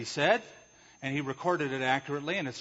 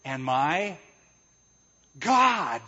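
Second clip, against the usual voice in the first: awed exclamation; 5 dB louder, much slower than usual. Retold or imitated. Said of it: "He said".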